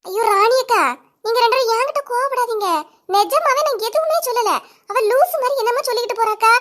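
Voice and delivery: high nervous plea to two angry women; whiny pleading. Acted. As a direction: protest your innocence half laughing, half crying.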